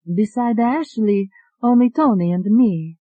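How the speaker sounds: lightly voiced Italian woman; Italian accent. Alette telling the doctor her name, lightly Italian accent. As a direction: introduce yourself shyly, lightly Italian.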